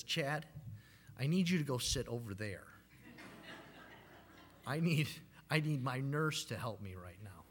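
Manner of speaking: mock kindly. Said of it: "she says very kindly".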